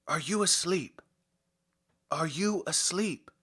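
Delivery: the doctor barging in impatiently; mildly cross hurried question. Acted. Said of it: "asked hurriedly and crossly".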